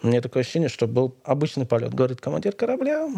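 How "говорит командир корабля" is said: pilot speaking over the PA; captain's cabin announcement. Retold or imitated. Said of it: "заговорил командир".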